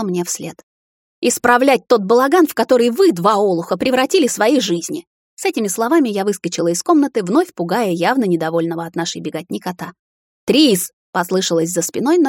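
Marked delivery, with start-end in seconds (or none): 1.2-5.1 higher, louder angry scold. A narrator's reading. Heroine storms off scolding. 10.5-10.9 calling out. A narrator's reading. Husband calls after her.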